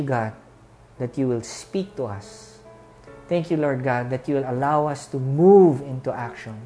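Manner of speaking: earnest pastor's closing prayer. Acted. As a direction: pray over the congregation with music.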